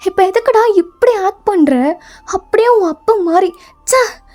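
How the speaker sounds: mildly acted exasperated mother; fed-up, impatient telling-off; harsh scolding. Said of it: "இன்னும் ரொம்ப ஹார்ஷா தான் அவன்கிட்ட".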